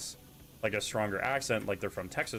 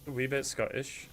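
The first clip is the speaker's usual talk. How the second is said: put-on Scottish accent; 3 semitones higher than usual. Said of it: "imitate the Scottish accent".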